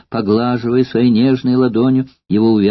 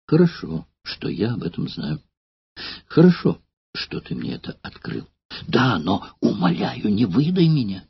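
quiet, grim and firm; hard, dark resolve; 5 dB quieter than usual. Acted. Courtesan telling old actor her plan, grim and firm. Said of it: "мрачным и твёрдым тоном".

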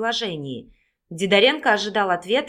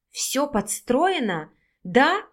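higher, louder accusing outburst; loud cry; 6 semitones higher, 6 dB louder, slower than usual. A narrator's reading. Vika accuses the investigator of a set-up, crying out loudly. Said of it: "громко закричала".

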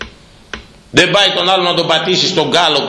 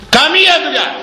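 much higher, final and firm; emphatic rebuke. Real, not acted. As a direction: slam the point home. Preacher rebukes mothers.

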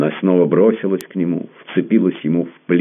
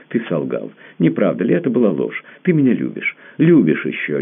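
rising higher, urgent and pleading; feverish insisting; 5 semitones higher than usual. A narrator's reading. Tamara clinging to the prince, insisting he loves her, feverish and higher. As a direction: press him feverishly, voice climbing. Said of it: "лихорадочно твердила она".

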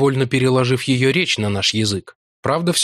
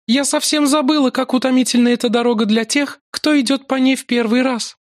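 gentle maiden; 13 semitones higher than usual. A narrator's reading. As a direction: fuss over tired guests. Lakla voiced high.

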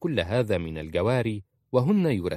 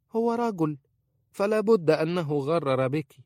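put-on a much higher, cutting old woman's voice; scornful old woman; 9 semitones higher, 4 dB louder than usual. A narrator's reading. Khalisa warning Aisha about her husband, scornful. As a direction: spit out the word for men with contempt.

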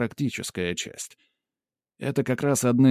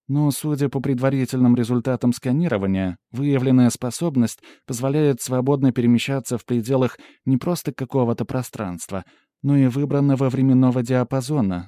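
lightly voiced assistant, slightly raised and louder; assistant giving a report; 3 semitones higher, 4 dB louder than usual. Pandora reporting scan results to the hero, lightly voiced assistant. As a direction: report findings with an analyst's formal precision.

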